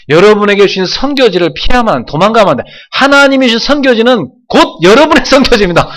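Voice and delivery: impassioned pulpit exhortation; preaching at full force. Acted. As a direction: drive it home to the congregation.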